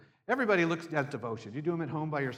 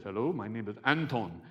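a light hint of a Ukrainian accent on the waiter's greeting; mild Ukrainian-accented hello; 6 semitones lower than usual. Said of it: "And Anton had an accent".

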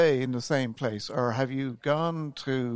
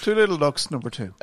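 bingo caller; 4 dB louder than usual. Shown as a demonstration. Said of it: "you're like a bingo caller".

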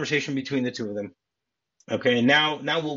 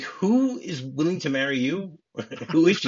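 mock incredulity; 4 semitones higher than usual. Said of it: "has an amazing delivery by saying".

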